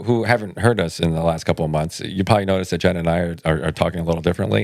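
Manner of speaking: talking through retainers; slight retainer lisp. Real, not acted. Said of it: "We have a slight lisp".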